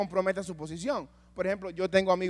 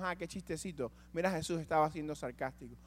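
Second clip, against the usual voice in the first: mock sarcastic reading; 4 semitones lower, 10 dB quieter than usual. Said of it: "Nosotros leemos eso y decimos".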